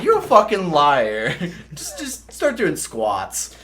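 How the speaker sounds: loud, then slow laughing command; sergeant's order. Retold or imitated. First sergeant ordering the recruit to squat, loud laughing command. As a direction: bark the order like a drill sergeant.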